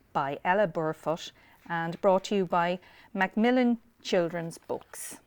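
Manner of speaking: usual speaking voice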